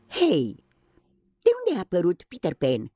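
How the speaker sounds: high, startled cry of wonder; Wendy wakes and gasps in surprise; amazed exclamation. Acted. Wendy sees Peter Pan in the nursery, amazed. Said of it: "exclamă ea uimită".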